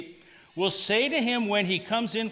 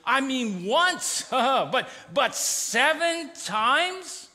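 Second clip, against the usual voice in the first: sarcastic disciples; slower than usual. Retold or imitated. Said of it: "the disciples are being sarcastic".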